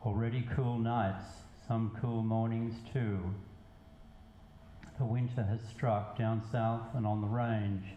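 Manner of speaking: measured poetry reading with pauses between lines; spoken verse, evenly paced; poem recitation. Acted. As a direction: recite it line by line, letting each phrase land.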